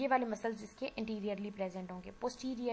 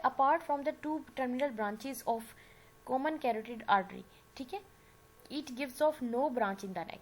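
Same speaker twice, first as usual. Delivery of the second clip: very slow, deliberate, a little louder, word by word; slow dictation; 4 dB louder, much slower than usual. Real, not acted. Teacher dictating a note to her class, slow and deliberate. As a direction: dictate it so the class can write it down.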